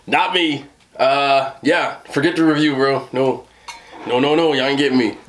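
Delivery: loud, high-pitched protest; emphatic refusal. Real, not acted. Emphatically refuses dill pickle chips.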